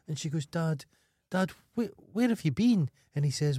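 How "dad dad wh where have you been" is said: rising higher, pleading "Dad, Dad"; lightly voiced daughter getting higher as she begs. Daughter reunites with her dad in advert, a hint of pleading.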